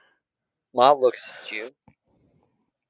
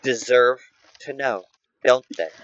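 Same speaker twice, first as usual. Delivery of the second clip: menacing matriarch; 3 semitones lower, much slower than usual. Acted. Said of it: "She emphasizes".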